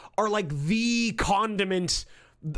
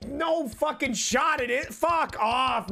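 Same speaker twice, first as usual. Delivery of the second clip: indignant shout; 4 semitones higher, much slower than usual. Real, not acted. Arguing with friend about blood.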